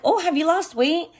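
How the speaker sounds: high, fake-sweet prying question; translating the aunt's question in her high voice; mock nosy relative. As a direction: imitate the aunt pretending to compliment. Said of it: "they use those comments like".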